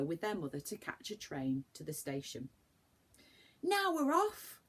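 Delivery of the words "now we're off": high, louder eager cry; thrilled boyish cry; excited cry. Acted. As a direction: call it out like a boy setting off. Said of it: "cried Joe".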